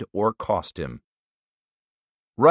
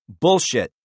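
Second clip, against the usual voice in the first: scornful; 4 semitones higher, 4 dB louder than usual. Acted. Senator dismissing answer.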